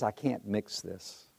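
soft, slow, calm refusal; retold quiet, measured refusal; calm but firm. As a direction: hold firm gently, without raising the voice. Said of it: "Calm voice".

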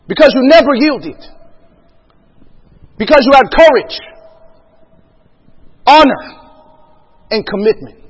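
imitated rousing address to new Marines; general's speech. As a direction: deliver each virtue as a proclamation, with pauses between. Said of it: "he gives you this speech".

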